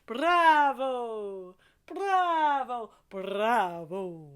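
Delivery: big shouted bravo; loud cheer. Shown as a demonstration. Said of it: "get your hands involved".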